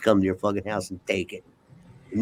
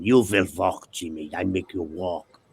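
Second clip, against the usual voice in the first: put-on low, firm German-accented order; 4 semitones lower than usual. Little Russian woman ordering her patient to walk, German accent. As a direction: imitate a stern therapist's German accent. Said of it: "she had a German accent".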